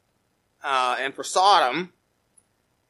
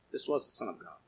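much lower and softer, hushed awe; soldier's awed words; 10 semitones lower, 16 dB quieter, faster than usual. Real, not acted. Preacher voicing the Roman soldier at Calvary, hushed awe. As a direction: breathe it out in wonder.

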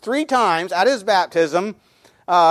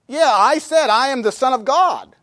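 raised pitch, insisting; emphatic protest; 6 semitones higher than usual. Acted. What he's really telling him, in emphatic protest. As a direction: argue it back at them, higher. Paraphrases Jesus arguing with Pharisees.

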